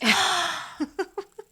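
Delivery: high, breath-only gasp of delight; excited gasp. Real, not acted. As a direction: gasp with happy surprise. Thrilled by the surprise.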